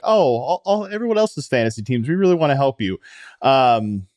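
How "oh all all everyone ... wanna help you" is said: mock sincere. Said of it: "pretend like".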